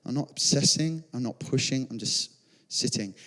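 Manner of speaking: quiet, fading into peace; peaceful surrender. Retold or imitated. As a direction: let each line sink into stillness. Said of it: "I just got to this place of peace".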